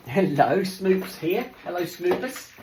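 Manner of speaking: doggy greeting. Real, not acted. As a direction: coo a welcome to your pet. Greeting the dog arriving.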